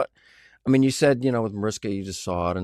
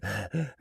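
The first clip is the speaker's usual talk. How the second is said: a quick mock gasp; retold gasp for breath; 6 dB quieter than usual. Reaching backstage after running from cheerleaders, mock gasp. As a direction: catch your breath like you just ran the bases. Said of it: "I'm out of breath".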